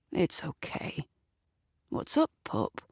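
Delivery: soft voiceless coaxing of a scared dog; whispered comfort to the dog; soothing whisper. Acted. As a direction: hush her gently. Lewis soothing frightened dog.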